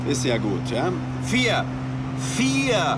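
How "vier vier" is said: exasperated shout. Acted. Yelling the number at phone menu.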